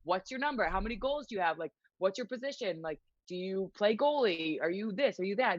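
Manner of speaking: acted, upbeat questioning; pumped up. Player hyping up a little girl, pumped. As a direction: play the pumped-up hockey player quizzing a fan. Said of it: "I'm pumped for you".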